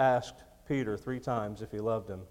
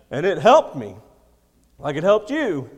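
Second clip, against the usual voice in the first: preaching at full force; 5 semitones higher, 12 dB louder than usual. Real, not acted. Preacher's rising emphasis.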